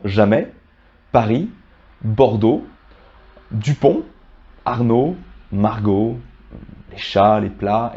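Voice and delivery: jamais, Paris, Bordeaux, Dupont ending on the vowel; spaced examples, Dupont and Arnaud with last letters silent; silent final consonants. Shown as a demonstration. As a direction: list jamais, Paris, Margot, chats, plats without final consonants. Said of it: "qui ne se prononcent plus".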